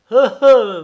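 high, very loud double bleat; storybook sheep cry. A narrator's reading. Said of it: "bêla le mouton".

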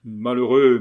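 a loud cry of dismay. Acted. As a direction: shout it in horror. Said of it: "m'écriai-je".

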